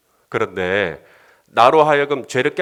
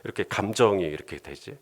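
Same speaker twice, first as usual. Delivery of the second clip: mildly acted sheepish backing down, lower pitch; 찔끔함; 4 semitones lower than usual. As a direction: play a husband caught short and quickly agreeing. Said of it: "이렇게 찔끔하면서". (찔끔해서 낮게 수긍하는 말투)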